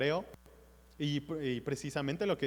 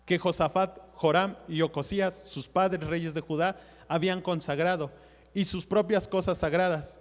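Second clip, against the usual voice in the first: scripture reading. Acted. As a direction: read the verses out to the congregation. Preacher reads scripture aloud.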